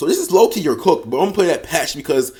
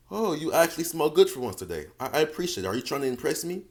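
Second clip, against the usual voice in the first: playful teasing; 8 dB quieter than usual. Retold or imitated. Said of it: "say this in a tone where she can tell that you're playing".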